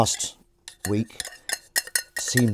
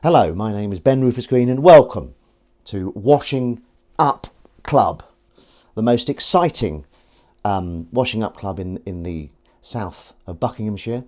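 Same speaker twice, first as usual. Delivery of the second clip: host a pretend TV show; mock show host; 5 dB louder than usual. Hosting Washing Up Club for the camera, louder mock presenter.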